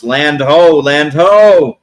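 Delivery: mock lookout's call, held on "ho"; sailor's shout. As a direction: call out land like a ship's lookout. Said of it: "folks shouts".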